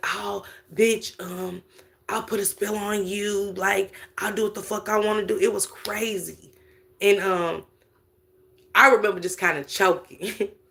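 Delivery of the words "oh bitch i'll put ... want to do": quieter, mock-menacing put-on tone. Telling how a sister reacted to being told to leave, imitating her threat. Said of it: "And she was like".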